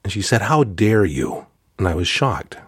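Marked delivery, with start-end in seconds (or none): 0.4-1.5 slow, measured mock reprimand; retold rebuke, each word drawn out; stern rebuke. Facilitator looking right through a student, slow stern rebuke. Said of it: "right through my soul".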